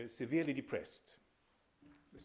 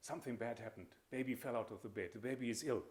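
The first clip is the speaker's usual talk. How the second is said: quick, hushed worried mother, much softer; afraid mother; 4 dB quieter, faster than usual. Retold or imitated. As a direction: mildly act out a frightened mother, speeding up. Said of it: "is deeply afraid and says".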